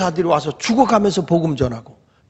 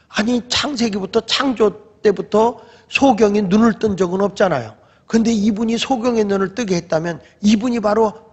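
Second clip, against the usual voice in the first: higher-pitched, insistent retort; arguing back; 5 semitones higher than usual. Retold or imitated. Healed blind man to the Pharisees, arguing back. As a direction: reason with them, acting an incredulous challenger.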